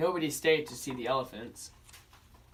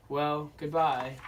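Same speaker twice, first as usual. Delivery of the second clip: sad goodbye; slower than usual. Acted. Danny sadly parting.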